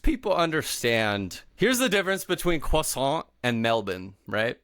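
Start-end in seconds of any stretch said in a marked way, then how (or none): 2.6-3.3 croissant as French kwah-SAHN; French pronunciation. Shown as a demonstration. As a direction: demonstrate "croissant" with a silent final T. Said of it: "when you say croissant".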